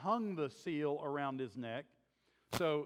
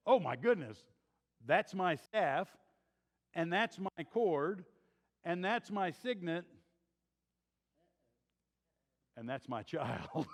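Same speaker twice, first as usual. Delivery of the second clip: dawning shock. Retold or imitated. Judah realizing he's the father.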